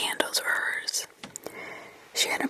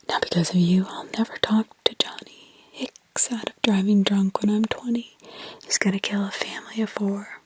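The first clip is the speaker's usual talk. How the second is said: put-on demonic child. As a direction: let something else speak through her. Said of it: "it was demonic in others".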